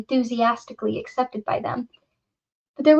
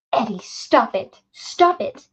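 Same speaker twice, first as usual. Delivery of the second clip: urgent plea; slower than usual. Acted. Susanna begs Eddie to stop.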